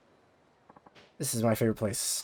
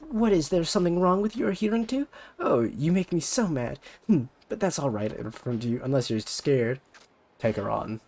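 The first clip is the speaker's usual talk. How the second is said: bratty rival idol; 2 semitones higher than usual. Acted. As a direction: talk down to her like a snobby idol. Ulala goads.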